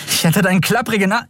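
high, fast outburst, cut off; furious cursing. Acted. Endriel cursing the traitorous skeleton, furious. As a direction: spit the insult.

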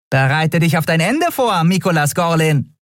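high tiny creature voice, gloating; little winged Nelen gloating over Miko; nasty grin. Acted.

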